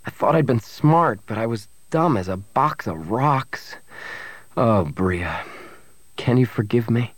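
self-blaming, earnest confession; remorseful Han. Acted. Han apologises to his girlfriend for failing her, remorseful. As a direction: confess your failure and beg forgiveness. Han blames himself to Bria.

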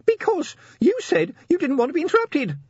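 high shaky little voice; tiny imp about to cry; quavering imp. A narrator's reading. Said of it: "the imp quavered".

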